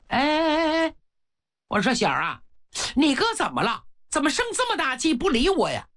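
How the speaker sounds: lightly voiced witch mother; old witch voice. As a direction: nag her younger son, a touch of the crone. Old witch calls her son.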